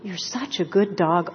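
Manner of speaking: gentle voice praising a good dog; soothing dog praise. Retold or imitated. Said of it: "listening to this voice going".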